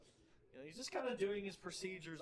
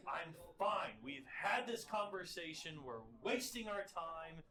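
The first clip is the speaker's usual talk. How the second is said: annoyed insistence; slower than usual. Acted. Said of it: "Dekul actually looks angry".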